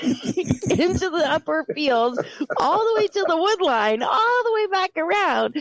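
high, laughing narration breaking up; can't stop laughing as you tell it; laughing at the horse's antics; laughing through it. Real, not acted. Laughing while telling the horse story.

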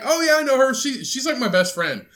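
high gushing best-friend voice; mock gushing friend. Mocking a friend who calls everyone his best friend. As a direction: overclaim friendship brightly. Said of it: "You're like".

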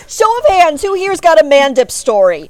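high, loud call to the whole room; rally the audience for a show of hands; projected, excited crowd question. Real, not acted. Asking the convention crowd.

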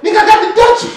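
very high gleeful boast; proud boast. Retold or imitated. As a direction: show off what you brought. Retold boast in store.

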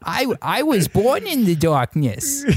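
high, garbled mumbling villain voice; mangled Bane voice. Pretend. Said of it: "could you imagine if Bane talked like that".

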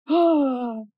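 gasp, then a wounded, hammed-up reproach; mock shock. Mock reproach over not paying attention.

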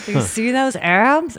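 put-on slow, creaky old man brag; lightly voiced old geezer. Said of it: "It's always the old man voice".

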